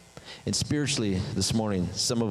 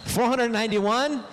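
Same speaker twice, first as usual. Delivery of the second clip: high, punchy, raised-voice cutoff; mock triumphant dismissal; 12 semitones higher than usual. Forgiver cuts off offender past the limit, mock triumphant. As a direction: call it out like a gleeful ultimatum.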